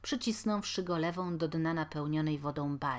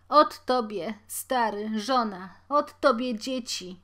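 louder, higher wailing reproach; sobbing lament; 4 semitones higher, 8 dB louder than usual. A narrator's reading. Mother to her husband, wailing and sobbing. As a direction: sob out the blame. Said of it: "wołała szlochając".

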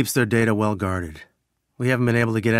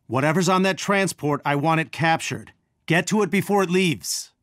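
higher-pitched, insistent command; urgent order; 4 semitones higher than usual. Acted. Ordering team to capture the transport, urgent. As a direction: press them to act in time.

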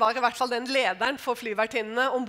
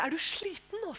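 friendly concern; 5 semitones higher, 6 dB quieter than usual. Retold or imitated. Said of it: "jeg smilte, og jeg var riktig så vennlig".

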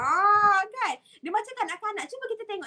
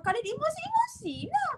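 mock emotional outburst; 11 semitones higher than usual. Mimicking emotional yellow person.

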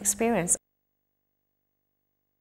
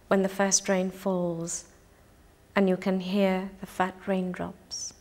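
unhurried poetry reading with pauses between lines; poem reading. Acted. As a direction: read each image gently and let it land. Reads her own poem.

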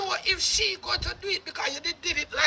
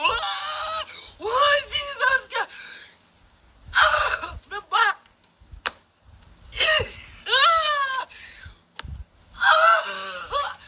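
much higher, drawn-out mock groaning; mock groans; 8 semitones higher, much slower than usual. Hamming up pain while mocking the guy. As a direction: groan like it hurts, hammed up.

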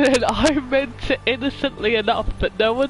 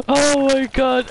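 drawn-out oh my god; slow exclaim; 4 semitones higher, 4 dB louder than usual. Real, not acted. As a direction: savor the embarrassment. After embarrassing story, laughing.

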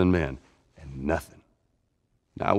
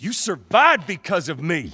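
raised, slower, furious voice; angry shout; 9 semitones higher, 4 dB louder than usual. Acted. Older brother shouting at Tommy in rage. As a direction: hurl it at him like an accusation. Heated argument between brothers.

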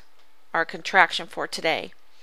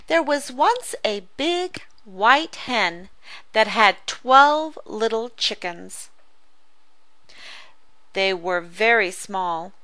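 put-on reading to children. Teacher reading the story aloud to pupils, storybook style. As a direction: read it like a picture book to a class.

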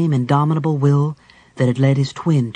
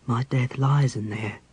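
murmuring; 5 dB quieter than usual. Acted. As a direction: mutter it under your breath. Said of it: "he murmured to himself".

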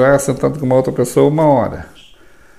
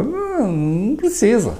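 mock high retort; 10 semitones higher, 5 dB quieter than usual. Mocking the kneel-and-pray idea.

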